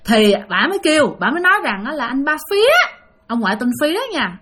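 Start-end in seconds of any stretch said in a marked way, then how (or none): 2.1-2.7 a lightly pitched-up ghost woman calling his name; eerie ghost voice. Acted. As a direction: call out to him like a ghost woman, a touch higher. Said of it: "giọng bà thấy ghê lắm".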